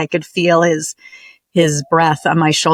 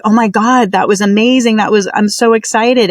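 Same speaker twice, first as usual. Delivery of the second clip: excited; 4 semitones higher than usual. Retold or imitated. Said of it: "this conflicting emotion of like".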